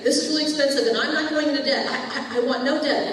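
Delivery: loud retelling. Retold or imitated. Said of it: "Rocky kept saying".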